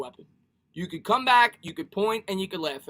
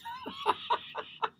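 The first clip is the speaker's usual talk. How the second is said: laughing; 9 dB quieter than usual. Real, not acted. Laughs at a chat message.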